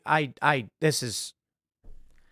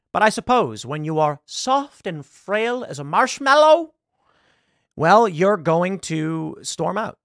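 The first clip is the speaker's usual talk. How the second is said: mocking; 3 semitones higher, slower than usual. Real, not acted. Mocking the senator's walkout.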